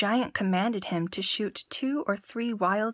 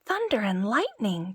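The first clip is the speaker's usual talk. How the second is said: mild cry; 2 semitones higher than usual. Acted. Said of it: "cried the tailor".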